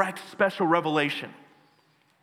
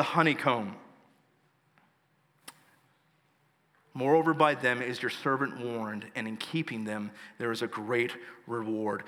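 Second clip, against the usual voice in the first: measured psalm reading with pauses between phrases; scripture reading. Acted. Pastor reading the psalm to the congregation, measured scripture reading. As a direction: read each verse out solemnly, letting it land.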